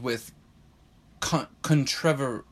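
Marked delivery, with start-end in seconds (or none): 1.2-2.4 "contrever-" broken off, stress shifted to the second syllable; attempted English pronunciation. Shown as a demonstration. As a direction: haltingly try British "contrever-". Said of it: "I can't say it properly because I'm not English".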